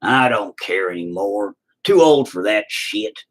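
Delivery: lightly voiced old man who's stopped caring; a hint of a grumpy old-timer; old redneck voice. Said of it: "They're like".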